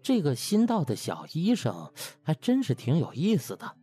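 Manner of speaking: plain reading voice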